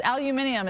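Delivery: "aluminium" al-you-MIN-ee-um; British pronunciation. Shown as a demonstration. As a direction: pronounce "aluminium" in five syllables, as the British do. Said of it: "is how they say it".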